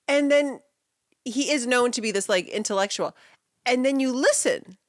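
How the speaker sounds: ordinary delivery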